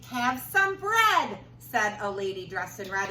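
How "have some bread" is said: high, slow sweet offer; lady's offer. Acted. Lady dressed in red offering bread, high and slow.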